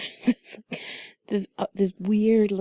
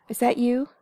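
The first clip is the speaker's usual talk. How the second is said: talking to cat; 7 semitones higher than usual. Real, not acted.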